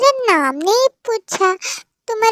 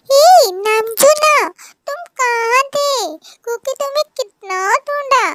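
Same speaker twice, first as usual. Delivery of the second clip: put-on excited child call; 6 semitones higher than usual. Child calls to uncle he missed.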